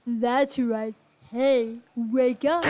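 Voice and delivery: put-on slow, loud American country accent drawl. Trucker wakes his brother in American country accent. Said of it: "His deep American chunk-, country accent".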